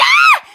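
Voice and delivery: piercing high shriek of fright; sudden high loud scream; terrified scream. Acted. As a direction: shriek like you just saw a ghost. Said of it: "And Dad screamed".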